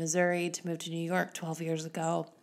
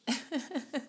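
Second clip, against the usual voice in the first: sneezing; 7 semitones higher, 4 dB quieter than usual. Real, not acted. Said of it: "I'm going to sneeze".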